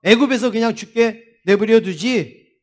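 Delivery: mildly indignant protest to God; preacher voicing a people's reproach; acted complaint. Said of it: "하나님을 막 불평하는 거예요".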